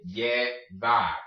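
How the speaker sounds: Llevar in two parted syllables, starting with Y; Y-sound llevar. Shown as a demonstration. Teacher repeats for learners, syllable-by-syllable Llevar. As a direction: split Llevar slowly, double L as Y. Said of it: "Your double L makes the Y sound".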